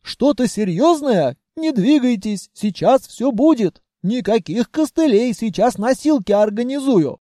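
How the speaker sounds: a guard proud it caught an intruder; smug treasury voice. Acted. Treasury telling Vanya it trapped the spy, pleased. Treasury fussing over wound.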